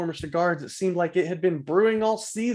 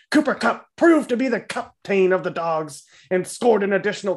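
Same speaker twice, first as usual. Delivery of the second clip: excited boomer recap; 4 semitones higher than usual. Acted. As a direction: ham up the sportscaster boomer. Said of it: "No, you need to speed it up".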